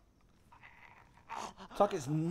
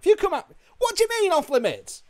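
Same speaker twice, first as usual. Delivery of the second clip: higher, louder angry protest; indignant yelling; 7 dB louder than usual. Real, not acted. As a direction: argue back at the guard. Arguing with a guard NPC.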